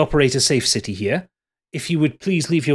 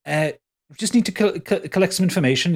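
officious concierge; 5 semitones higher than usual. Acted. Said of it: "the concierge walks up to you, Calbo, and goes".

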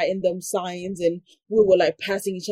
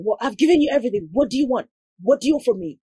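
exasperated nurse; 3 semitones higher, much faster than usual. Retold or imitated. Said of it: "she kept on going".

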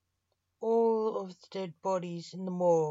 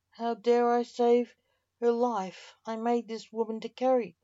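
loud, higher-pitched outrage; indignant retort; 4 semitones higher, 5 dB louder than usual. Acted. Argent defends saving the wife's life, loudly indignant. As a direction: throw the accusation back, raised and emphatic.

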